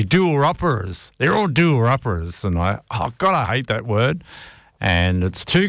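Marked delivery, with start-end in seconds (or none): 0.0-2.4 "doer-uppers" drawn out slowly, mock Canadian. DJ mocking a Canadian housing show, slow mock accent. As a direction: lightly imitate a Canadian TV host saying "doer-uppers". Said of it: "but they say, they say".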